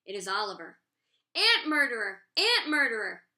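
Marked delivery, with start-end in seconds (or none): 1.3-3.2 high, loud accusing scream. A narrator's reading. Oliver accusing Shay across the room, a loud high scream. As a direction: scream it at her, horrified. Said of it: "All of a sudden there is screaming".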